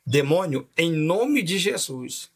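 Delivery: firm, drawn-out mock rebuke; imitated authority. Friend rebuking a demon in the speaker, imitated slow command. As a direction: retell a commanding exorcism, stretching the words. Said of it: "veio numa autoridade tão grande".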